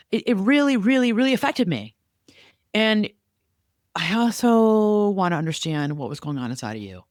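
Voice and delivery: earnest hurt then gentle curiosity; sincere, open. Shown as a demonstration. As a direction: say it honestly. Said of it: "that's what we have to say".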